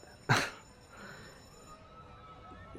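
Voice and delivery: short airy laugh trailing into breath; breathy chuckle. Acted. Amused by a delightfully inane idea, breathy chuckle. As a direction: chuckle under your breath.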